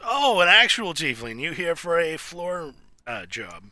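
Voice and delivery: loud startled manager voice; surprised casino manager. Acted. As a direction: bark it out, surprised and brusque. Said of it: "He looks up and goes".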